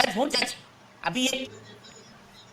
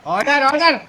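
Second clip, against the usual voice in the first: loud; 6 dB louder than usual. Acted. Judge calling court to order.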